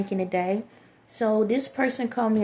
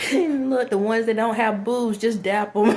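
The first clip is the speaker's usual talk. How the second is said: laughing; 3 dB louder than usual. Real, not acted. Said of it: "I'll laugh at myself".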